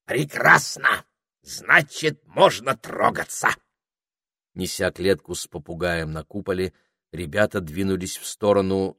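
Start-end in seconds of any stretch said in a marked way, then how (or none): 0.0-3.5 бодро. A narrator's reading. Попугай бодро зовёт в путь.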